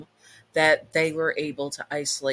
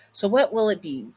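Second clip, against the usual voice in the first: higher, playful demon; teasing demon voice; 6 semitones higher, 4 dB louder than usual. Acted. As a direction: tease the summoner. Demon asks who to punish.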